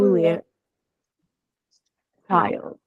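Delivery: a hint of a scornful Jotun; looming giant. Giant scolds the foolish little hero who provoked it, looming giant voice.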